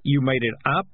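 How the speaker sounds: growled sceptical question; mildly growled disbelief. A narrator's reading. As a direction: question it with a grumble. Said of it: "Morris growled".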